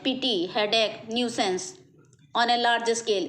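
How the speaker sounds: very slow, word by word example; slow dictation. Shown as a demonstration. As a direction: spell out each phrase slowly for the class. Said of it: "इस type से ये कुछ phrases हैं". (धीरे धीरे उदाहरण बोलना)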